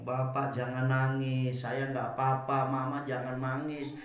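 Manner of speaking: slow, low retold reassurance; tender soothing. Hurt child tells parents not to cry, tender soothing. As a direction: comfort them slowly and gently.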